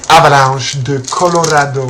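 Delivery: "Avalanche de Colorado" read the French way; French pronunciation. Shown as a demonstration. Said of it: "as written".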